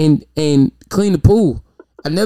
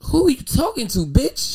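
indignant shout; 8 semitones higher than usual. Retold or imitated. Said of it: "repeats the retort".

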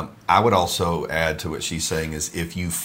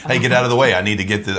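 imitating wife's curt demand, louder; mock snappy order; 4 semitones higher, 5 dB louder, much faster than usual. Husband mimics wife's impatient command. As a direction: bark it like an impatient wife.

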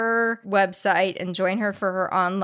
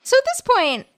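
raised, exasperated annoyance; annoyed; 5 dB louder than usual. Real, not acted. Co-host admitting the talk is getting to them, annoyed. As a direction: let the irritation burst out a little louder. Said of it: "I'm getting unusually annoyed".

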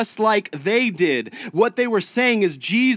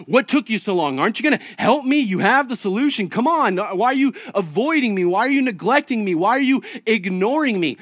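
whiny complaint; 3 semitones higher than usual. Retold or imitated. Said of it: "they run to you and they're like".

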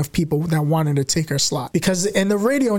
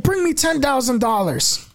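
higher, slow boss naming a price; a hint of the gruff boss; lightly voiced boss demand; 6 semitones higher, slower than usual. Imitating radio owner.

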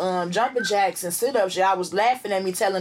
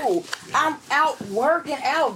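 higher voice, slowed excuse; acting out own excuse; 5 semitones higher, slower than usual. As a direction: say it like a brushed-off excuse. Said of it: "I'm like".

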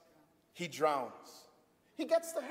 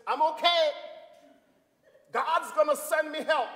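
insistent refusal; 8 semitones higher, 5 dB louder than usual. Acted. Man refusing rescue, insistent.

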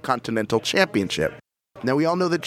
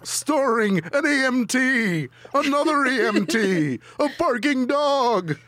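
movie trailer voice; 8 semitones higher than usual. Pretend. Jokey movie promo for Danielle.

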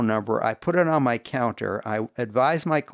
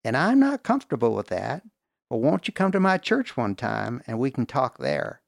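lightly imitated Southern woman; imitated Tennessee accent; 3 semitones higher than usual. Young woman countering a date with church, in a light Tennessee accent. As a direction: quote her with a hint of Tennessee twang. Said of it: "your accent".

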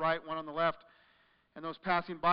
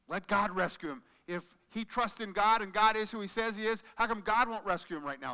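louder scornful jeering; mocking taunt; 4 semitones higher, 6 dB louder than usual. The crowd mocking the crucified Jesus, loud scornful taunt. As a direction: taunt him with open scorn. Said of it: "they said to him".

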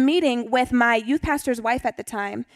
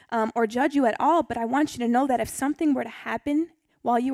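gently retelling a kind plea, a little softer; kind and compassionate; 3 dB quieter than usual. Retold or imitated. Youth pastor's wife pleading with the mom, kind and soft. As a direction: soften it like a caring mentor. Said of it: "in the most kind and compassionate way".

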